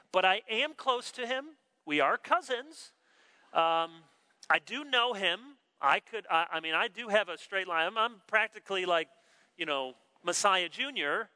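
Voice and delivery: mock self-promotion with hesitations; posturing. The preacher imagines boasting of ties to Christ, mock posturing. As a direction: hedge and fumble towards a boast. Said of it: "the way we like to posture and position ourselves".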